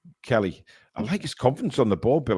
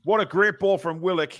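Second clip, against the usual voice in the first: excited; 5 semitones higher than usual. Real, not acted. Reacting to near own goal.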